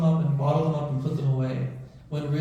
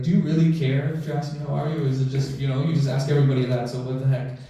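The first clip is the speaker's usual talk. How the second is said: mildly frustrated retort, a bit louder; 4 dB louder than usual. Retold or imitated. Patient challenging his doctor's routine question, mildly frustrated. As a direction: imitate a fed-up patient's challenge. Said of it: "he got frustrated at me".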